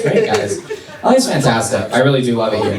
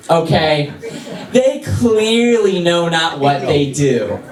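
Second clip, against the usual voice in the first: mock passive-aggressive martyr, pitched up; sassy Jesus; 4 semitones higher, slower than usual. Comedian playing Jesus to the crowd, sassy and passive-aggressive. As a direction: sigh it out like a put-upon saint. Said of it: "He was just being a sassy, passive-aggressive bitch".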